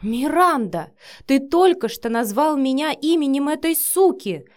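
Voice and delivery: shrieking with fury; furious yell. Acted. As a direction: hurl the accusation in a rage. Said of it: "завопила Вика в ярости".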